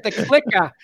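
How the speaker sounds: CLICKER as "clicka", Boston style; Boston accent. Shown as a demonstration. Explaining the accent to a friend, Boston-accented "clicka". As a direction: drop the final R of CLICKER like a Bostonian. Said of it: "that's my Boston accent".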